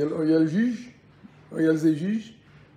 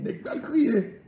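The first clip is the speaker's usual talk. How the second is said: laughing mock cry; 8 semitones higher, much slower than usual.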